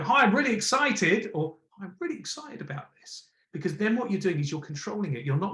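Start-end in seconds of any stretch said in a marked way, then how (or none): 0.0-1.3 high, louder gushing hi; shouty, over-the-top excitement; overexcited hi. Shown as a demonstration. Coach demoing the overdone excited greeting for Sarah. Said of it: "Instead of going". 1.8-3.3 much softer, lifted on really; contained energy, stress on really; controlled excitement. Shown as a demonstration. Coach demoing controlled excitement for Sarah. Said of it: "putting the tone and the emphasis in the delivery".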